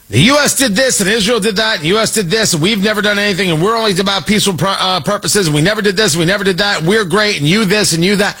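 lightly mocking singsong of the IRGC's claims; mock propaganda rant. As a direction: rattle off their excuses in a sneering singsong. Mocking the IRGC speech.

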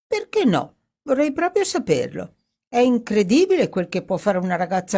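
indignant, pitched well up; piqued retort. Acted. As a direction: bristle back at the teasing. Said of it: "scosse la testa indispettita". (ribattuta indispettita, voce molto più alta)

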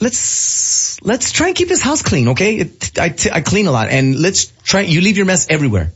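high, whiny scolding imitation; mock the nagging; lightly voiced nagging wife. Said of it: "She's like".

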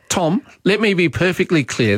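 lightly imitating a premier dodging a question; Jacinta Allen. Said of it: "This was Jacinta Allen".

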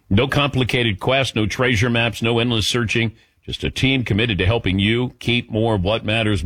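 smooth, scripted sponsor read. Acted. Host pitching car and home insurance to listeners, ad read. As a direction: sell it in measured, emphatic phrases.

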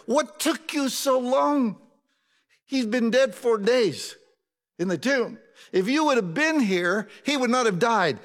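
high, impatient reproach; rebuking complaint. Shown as a demonstration. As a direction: scold him for coming late. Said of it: "That's not the way she said it".

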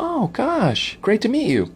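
high-pitched mock gushing; woman fan. Woman meeting a celebrity, high imitated gushing. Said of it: "They're like".

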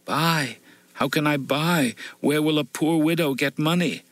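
high, bitter widow's lament; poor widow complaining to the woodseller, high and bitter; bitter complaint. A narrator's reading. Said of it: "She complains bitterly".

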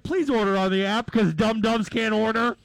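loud announcer voice; mock ad announcer. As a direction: sell the app sarcastically. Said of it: "they're like".

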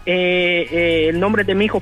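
usual speaking voice

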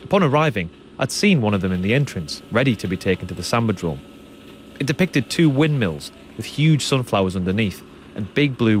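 measured, scripted radio presenter delivery; documentary narration. A narrator's reading. Presenter introducing the samba school story to listeners, documentary narration.

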